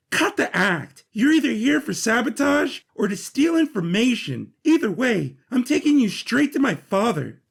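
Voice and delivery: sharp and certain, no patience left; Arch I E, accusing. Acted. Arch I E threatens to take Sidkick to his father, stern.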